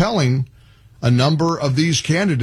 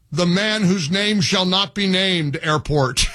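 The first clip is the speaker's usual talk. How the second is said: laughing; 2 semitones higher than usual. Real, not acted. Mocking joke airport name.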